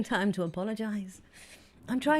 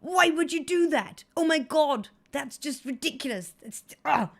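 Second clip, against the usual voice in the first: disgusted; 2 semitones higher, 6 dB louder than usual. Retold or imitated. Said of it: "I went".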